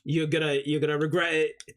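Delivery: poking fun at the director by imitating him; mocking the director. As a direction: lampoon the filmmaker lecturing about IMAX. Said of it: "he's like".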